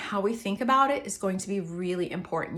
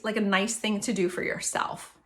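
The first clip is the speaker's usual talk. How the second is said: normal talking voice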